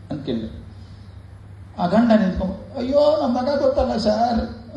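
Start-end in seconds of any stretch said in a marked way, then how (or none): 2.8-4.8 put-on higher, slow lament of a crying old man; weeping old father. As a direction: wail it like a grieving father. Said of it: "ಇಬ್ರು ಅಳ್ತಾ ಇದ್ರು". (ಅಳುತ್ತಿರುವ ಮುದುಕ ತಂದೆಯ ನಿಧಾನ, ಎತ್ತರದ ಗೋಳು)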